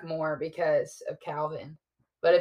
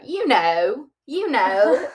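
higher, loud, rising "you know"; insistent nana; 6 semitones higher, 9 dB louder, much slower than usual. Retold or imitated. Nana finishing every sentence, insistent and rising. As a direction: imitate a nana tagging her sentences, pressing the point. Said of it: "after Nana would finish the sentence".

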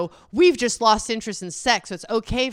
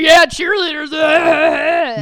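mock leering fan; 8 semitones higher, 12 dB louder, slower than usual. Imitating tweeting fans.

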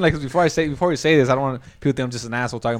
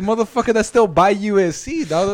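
high, raised-voice mock arguing; retold exasperated comeback; 7 semitones higher, 4 dB louder than usual. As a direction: insist loudly in mock exasperation. Acting out same distance argument.

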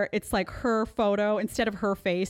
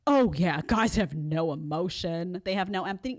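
mocking quote. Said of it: "is like".

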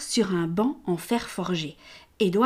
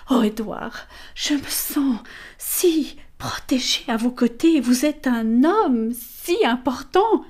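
flattering lady; 4 semitones higher, slower than usual. Acted. Amelia flatters Callaghan.

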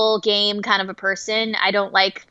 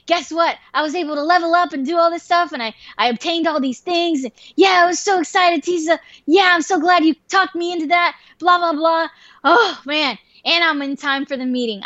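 high-pitched, breakneck happy report; imitated giddy rambling; excited gushing; 6 semitones higher than usual. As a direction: gush like a thrilled friend. Friend back, gushing about the game.

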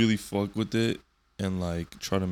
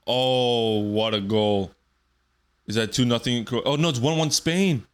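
excited goal reaction; 3 semitones higher, 4 dB louder than usual. Real, not acted. Reacting live to football goal.

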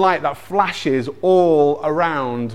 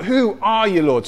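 higher-pitched but mild mock shout; quicker call of bewildered questioning; acted shout; 5 semitones higher than usual. Saul crying out to the unseen voice, mildly shouted. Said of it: "He shouts out".

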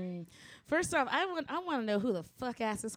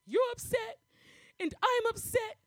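put-on much higher, slow reasonable kid voice; imitating a toddler; 12 semitones higher, 3 dB louder, slower than usual. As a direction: play the two-year-old calmly lecturing an adult. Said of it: "And he was like".

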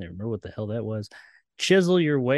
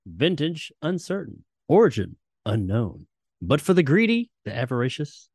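Twilight Zone narration; 2 semitones higher, 3 dB louder than usual. Shown as a demonstration. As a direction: intone it like the show's closing narrator. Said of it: "close us out, Jacob".

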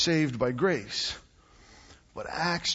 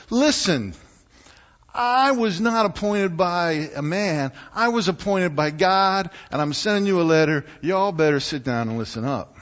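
louder, firm and scolding; stern rebuke; 4 semitones higher, 5 dB louder than usual. Retold or imitated. Paul scolding the Galatian church, mildly stern and loud. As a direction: lay down the law like an angry parent. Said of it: "You can almost hear that in his tone".

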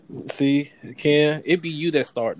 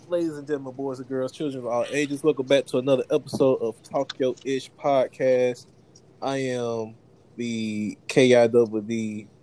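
ringmaster; 2 semitones lower than usual. Acted. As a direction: hype emcee intro, announcing the show. Ringmaster intro to podcast.

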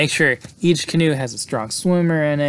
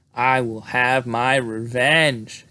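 vengeful cry; much slower than usual. Retold or imitated. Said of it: "cried out".

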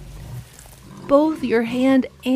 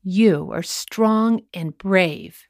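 slow sincere; much slower than usual. Shown as a demonstration. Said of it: "And remember".

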